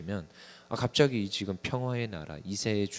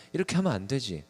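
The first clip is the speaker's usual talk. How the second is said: firmer scolding; 4 semitones higher than usual. Retold or imitated. Pastor imitating himself scolding his child, sterner. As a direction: press harder on 하면 as the scold grows. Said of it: "막 혼내다가".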